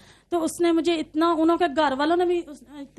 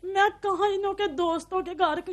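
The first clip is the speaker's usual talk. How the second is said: crying; 3 semitones higher, 3 dB quieter than usual. Real, not acted. Recounting begging his friends.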